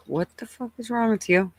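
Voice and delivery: mom's exasperated voice, pitched high; lightly voiced annoyed mom; imitating mom. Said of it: "She's like".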